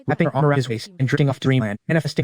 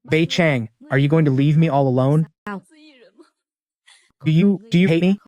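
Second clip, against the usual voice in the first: choked wronged voice; 2 semitones higher than usual. Acted. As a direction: fake a wounded sob to win him over. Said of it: "I spoke in a choked, wronged voice".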